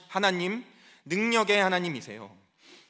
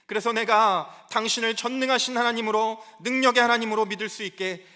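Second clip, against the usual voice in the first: higher-pitched, insistent pleading; desperate outcry; 3 semitones higher than usual. Acted. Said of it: "절규하는 거예요".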